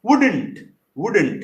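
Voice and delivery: "Wouldn't" said as "WOOD-ent", first syllable stressed; teacher carefully sounding out "Wouldn't" as "WOOD-ent"; pronunciation demo. Shown as a demonstration. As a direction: model "Wouldn't" for learners as two beats, "wood-ent". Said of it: "উচ্চারণটা কিভাবে বলবো?".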